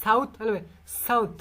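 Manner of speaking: সাউথ with the tongue on the alveolar ridge for th; সাউথ pronunciation. Shown as a demonstration. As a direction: say সাউথ touching the ridge above the teeth. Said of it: "এই sound হবে". (জিহ্বা উপরে লাগিয়ে সাউথ উচ্চারণ)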